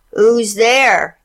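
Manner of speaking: croaking fake granny; croaky wolf. A narrator's reading. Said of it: "croaked the wolf".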